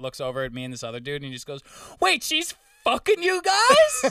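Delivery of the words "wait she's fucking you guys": very high, loud, drawn-out blurt. Retelling what a guy on the roof said: imitating someone saying it loud. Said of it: "pretty loud".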